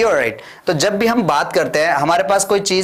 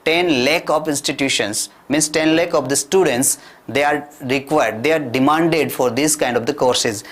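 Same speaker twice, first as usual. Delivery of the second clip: slow, careful English for learners; slow model sentences; much slower than usual. Shown as a demonstration. Teacher slowly modelling English for Hindi-speaking learners. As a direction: say each word slowly so they follow. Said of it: "teacher models English slowly".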